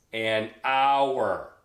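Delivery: "hour" drawn out loud in disbelief; incredulous stress on hour. Acted. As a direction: stretch the word "hour", pushing it hard. Incredulous repeat of preceding phrase.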